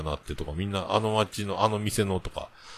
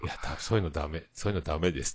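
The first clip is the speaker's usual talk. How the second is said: subdued reproof; 4 semitones lower, 6 dB quieter, faster than usual. Retold or imitated. Wife's rebuke voiced in retelling.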